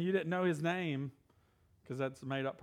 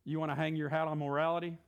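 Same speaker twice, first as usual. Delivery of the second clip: casual Jesus voice. Retold or imitated. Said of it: "and Jesus is like".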